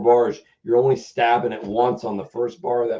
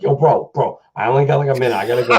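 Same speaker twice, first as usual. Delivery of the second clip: put-on Boston accent; faster than usual. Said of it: "such a thick Boston accent".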